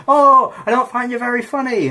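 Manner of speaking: high-pitched imitation of a heckler; hammed-up audience put-down; mock heckle. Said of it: "maybe she can heckle my vows".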